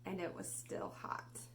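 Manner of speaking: gentle hushed ending; soft whisper. Acted. Teacher ending the story to kids, soft whisper. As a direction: whisper it like tucking a child in.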